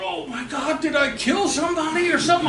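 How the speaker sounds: high, hurried alarm; retold panic. Driver fearing he hit someone, retold panic. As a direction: rush it out, mock-panicked.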